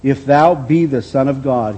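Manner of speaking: slow, drawn-out taunt; mock Satan. The devil tempting Jesus on the temple, slow sly taunt. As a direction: stretch out the devil's challenge. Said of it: "And he said unto him".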